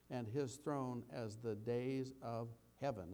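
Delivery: slow, measured reading of the psalm; scripture reading. Acted. Pastor reading the psalm to his congregation, slow and measured. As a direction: read it out like scripture, unhurried. Reads verses 28-29.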